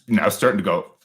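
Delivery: normal talking voice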